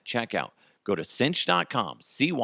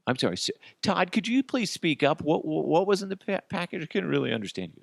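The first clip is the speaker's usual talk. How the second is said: higher, quick prodding reporter; mock reporter; 8 semitones higher, faster than usual. Reporter presses Todd to speak up, higher and quicker. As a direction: needle him to repeat it.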